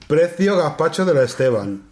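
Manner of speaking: slow, deliberate query; voice-search dictation. Real, not acted. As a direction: dictate it word by word to a voice assistant.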